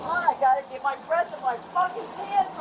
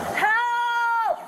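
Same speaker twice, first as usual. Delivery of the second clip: shouting for help; 6 semitones higher than usual. Real, not acted. Woman being arrested yells for help.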